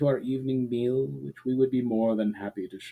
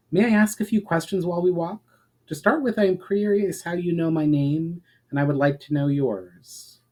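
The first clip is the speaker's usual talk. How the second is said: a lightly voiced eager young traveler, higher; curious questions pitched higher, lightly voiced; Valinar's voice; 7 semitones higher than usual. Valinar asks the elf questions on the walk, eager and higher.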